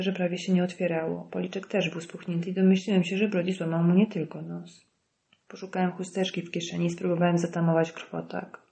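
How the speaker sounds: plain reading voice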